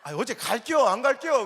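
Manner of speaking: loud, laughing noncommittal reply; laughing Chungcheong dodge. Retold or imitated. Preacher mimicking an evasive Chungcheong churchgoer, laughing loudly. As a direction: laugh through the vague answer. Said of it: "우리 충청도 사람".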